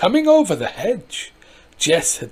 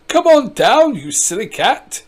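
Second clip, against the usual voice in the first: calling to the cat; 4 semitones higher, 6 dB louder than usual. Acted. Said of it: "he said".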